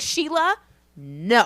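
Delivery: retold reprimand, rising then dropping hard; mock scolding. Retells scolding Sheila to others.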